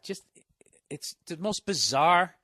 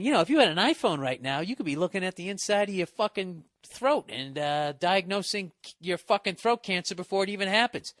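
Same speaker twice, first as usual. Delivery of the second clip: mock ad pitch; 5 semitones higher than usual. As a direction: sell it like a smug commercial.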